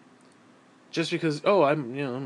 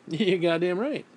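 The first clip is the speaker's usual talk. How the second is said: said slowly through a laugh; 2 semitones higher, slower than usual. Real, not acted. Laughs, repeats it.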